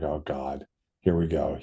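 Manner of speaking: retold quiet dread; mortified mutter. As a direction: brace for the worst under your breath. Speaker mortified, bracing.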